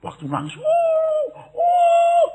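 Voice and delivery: high, loud drawn-out howl; mock dog howl. Preacher mimicking the dog at the funeral, loud high howl. Imitating the dog howling while crying.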